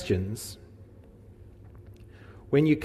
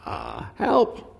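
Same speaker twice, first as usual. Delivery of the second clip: desperate plea; 13 semitones lower than usual. Acted. Jairus begging Jesus.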